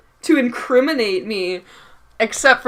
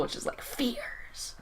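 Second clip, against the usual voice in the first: FEARS trailing into a whisper; very quiet; 19 dB quieter, slower than usual. Real, not acted. Co-host bringing up a topic, whispering FEARS. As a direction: barely breathe the word FEARS. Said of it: "say that a bit louder".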